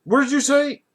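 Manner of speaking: high-pitched stunned question; shocked. Retold or imitated. Father questioning the woman who yelled, shocked. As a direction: mimic a man taken aback. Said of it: "like, just like that".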